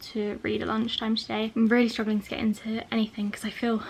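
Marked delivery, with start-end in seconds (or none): 1.5-3.8 breathless, feeling unwell; short of breath from illness. Real, not acted. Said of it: "I'm out of breath".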